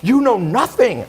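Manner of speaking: high, slow, scornful mimic; mocking snooty friend. Quoting the friend's put-down again, high mock scorn. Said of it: "She flipped out at a dinner".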